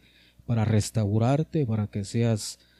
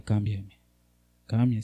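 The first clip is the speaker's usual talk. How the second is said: earnest plea; 2 semitones lower than usual. Shown as a demonstration. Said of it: "Tirarse y decirle".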